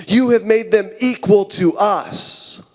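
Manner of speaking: aggrieved protest, drawn out slowly; indignant worker, each word weighed out slowly; angry grumbling. Acted. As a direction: accuse the boss of unfairness. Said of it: "get mad and they start grumbling at the landowner".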